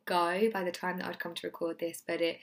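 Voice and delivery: hoarse, husky voice from losing it; lost voice. Real, not acted. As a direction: voice nearly gone, rough and husky. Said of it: "so I still have this man voice".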